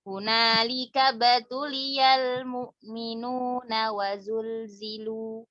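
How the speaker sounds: slow recitation, long held vowels; Quran recitation. Shown as a demonstration. Teacher demonstrating how the verse reads, slow recitation. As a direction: stretch each syllable in measured chant.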